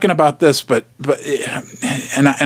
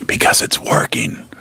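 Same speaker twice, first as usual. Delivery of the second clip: mock whisper; 4 dB quieter than usual. Echoing Joe's whispered slogan.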